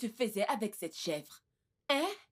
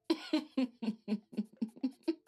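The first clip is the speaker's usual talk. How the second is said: long chuckling laugh; amused laugh; 3 semitones higher than usual. Acted. Mother with her calmed son, long amused laugh.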